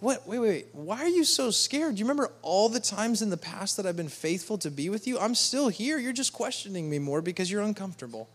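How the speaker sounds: a patient, surprised God asking why; God gently questioning. Retold or imitated. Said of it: "he's like".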